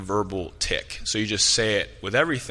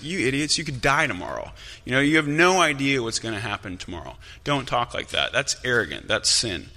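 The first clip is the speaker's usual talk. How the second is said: animated imitation of a fiery apostle, higher pitched; angry scolding; 4 semitones higher than usual. Fiery James scolding boastful planners, mildly angry. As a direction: tell them off with mild mock exasperation. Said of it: "he gets angry with people and he calls people out".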